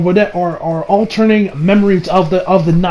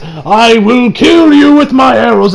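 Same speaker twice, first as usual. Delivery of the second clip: slow, louder villain threat in a put-on voice; dragon rider threat; 3 semitones higher, 4 dB louder, slower than usual. Dragon rider threatens Kirito and Yujo, slow villain voice. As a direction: menace them, taking your time.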